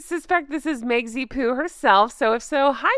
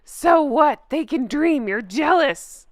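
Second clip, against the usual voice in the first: mock paraphrase; 2 semitones higher than usual. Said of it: "this person's point is".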